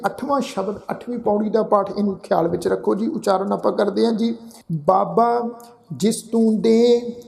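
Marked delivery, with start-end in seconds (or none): 4.9-7.2 slow, measured chanting of the verse; scripture recitation. Acted. Teacher recites the hymn for the sangat, slow and devout. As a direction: recite each phrase slowly and reverently.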